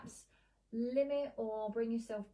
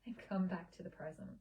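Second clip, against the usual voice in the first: guided meditation. Acted. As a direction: lead the listener gently into a memory. Leads a guided laughter meditation.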